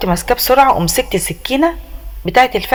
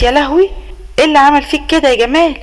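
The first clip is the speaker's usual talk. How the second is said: shocked outcry; 5 semitones higher than usual. Acted. Mother-in-law finds son tied.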